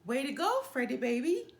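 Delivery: yelling encouragement. A narrator's reading. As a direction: cheer your pitcher on from the field. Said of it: "yelled Brother".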